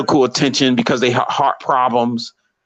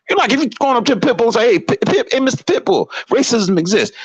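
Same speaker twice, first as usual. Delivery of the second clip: mock sweet talk; 9 semitones higher, faster than usual. Mock address to a pit bull.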